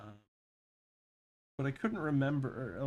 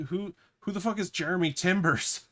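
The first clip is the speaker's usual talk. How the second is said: baffled; 5 semitones higher, 6 dB louder than usual. Retold or imitated. Baffled retort to coworker's pirate line.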